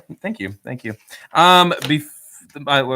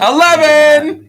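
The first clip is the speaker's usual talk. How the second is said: slow, loud, laughing shout; laughing exclamation; 11 semitones higher, 9 dB louder, slower than usual. Real, not acted. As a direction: burst out laughing on it. Laughing shock at the belly button count.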